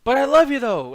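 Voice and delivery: high, loud mock-lovestruck plea; intense lovesick declaration. Superhero declaring love for his girlfriend, hammed-up intensity. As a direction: burst out with hammed-up devotion. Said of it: "his love for his girlfriend is so intense".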